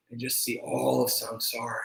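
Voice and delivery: hushed whisper of awe. Acted. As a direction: breathe the words as an unvoiced whisper. Whispered awe at seeing samsara.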